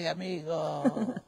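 playful laughing reply; laughing tease. Retold or imitated. Master calling to the returning student, laughing loudly.

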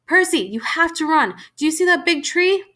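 high, insistent urging; urgent pleading. A narrator's reading. Mother sending her son away from danger, urgent. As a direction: press him to run for safety.

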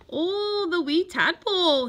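high, exclaiming uncle; uncle's voice. A narrator's reading. Uncle recalling his gift on the phone, exclaiming.

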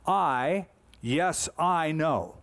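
"I" lifted, then "yes, I know" drawn out slowly; slow, certain emphasis on "I"; emphatic. Shown as a demonstration. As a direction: press every word of "I, yes, I know". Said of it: "it's very emphatic".

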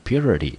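"purity" modelled as PYU-ri-ty; pronunciation demo. Shown as a demonstration. Teacher recapping how the noun is read, pronunciation demo. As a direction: say "purity" as a model, first syllable stressed. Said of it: "名词念成purity".

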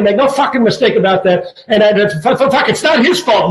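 light impression of a stammering, cursing coach. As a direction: stutter and swear like the coach, without changing the voice much.

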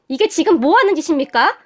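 indignant confrontation, short of a shout. Acted. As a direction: challenge them with rising outrage. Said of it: "제 목소리가 아주 컸던지". (언성을 높여 따지듯)

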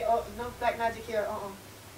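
high caricatured character voice; squeaky mock-accented denial; put-on Tituba voice. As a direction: imitate a hammy stage Tituba. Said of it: "I went".

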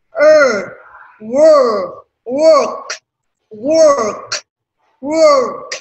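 "work" repeated loud and high; loud drill. Shown as a demonstration. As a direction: call out "work" firmly for the class. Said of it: "drill sound". (đọc to, cao "work")

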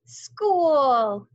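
put-on high, loud child's cry; gleeful child voice; excited. A narrator's reading. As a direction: shout it joyfully. Excited first day.

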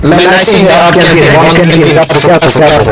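put-on Russian accent. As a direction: talk like a Russian guy. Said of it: "klinkt echt als een Russische gast".

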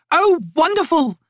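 high, drawn-out, gushing exclamation; delighted cry. A narrator's reading. Lady seeing the antelope brought for dinner, delighted cry. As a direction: cry out in grand, ladylike delight. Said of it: "Lady Envy cried".

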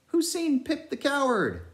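high, sing-song crier voice; mad bellboy crier. A narrator's reading. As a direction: ring out like a mad ship's crier. Pip's mad bellboy chant.

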